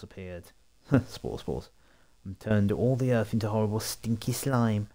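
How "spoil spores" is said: giggling through the silly name; laughing. Real, not acted. Reading the game's silly name, laughing. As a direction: laugh it out as you repeat it.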